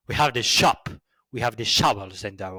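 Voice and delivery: lightly put-on English accent. Shown as a demonstration. Showing how English people talk, English accent. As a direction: try an English accent for show. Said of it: "this is more like English".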